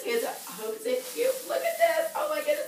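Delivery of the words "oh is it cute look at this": much higher, delighted squeal; excited squeal. Real, not acted. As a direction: squeal over something adorable. Digging through prize box.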